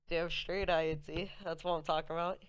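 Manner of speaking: loud and pumped, rising; hyped up. Real, not acted. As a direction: cheer it like a win. Cheering after the name works.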